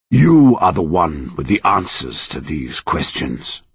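slow, grave monster voice; serious monster voice. Acted. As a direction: speak slowly and gravely, like an ancient tree. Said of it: "looking at him seriously".

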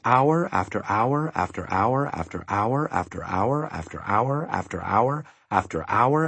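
sing-song rhythm, each HOUR rising; endless repetition. A narrator's reading. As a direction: repeat AFTER HOUR tirelessly, slowing to a final fall. Narrator mimics endless monotonous work.

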